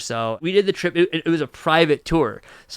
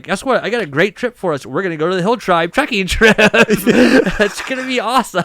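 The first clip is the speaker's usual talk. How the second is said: higher and louder, laughing as it builds; hyped-up pitch; 5 semitones higher, 6 dB louder than usual. Retold or imitated. To his friend, pitching a trek he never chose, giddy and laughing. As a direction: sell the trip to a friend, all giddy. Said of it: "I was like".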